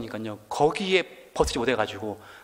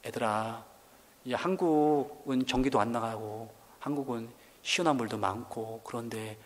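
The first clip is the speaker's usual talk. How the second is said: softer, lower retold dad voice; gentle fatherly question; 3 semitones lower, 5 dB quieter than usual. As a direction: lightly coax the children, keeping it soft. Retells gently asking his children. (아이들에게 나직이 묻는 아빠 말투)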